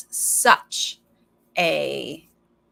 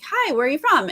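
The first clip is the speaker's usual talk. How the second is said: chirpy producer; 7 semitones higher, 4 dB louder than usual. Retold or imitated. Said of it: "they'd be like".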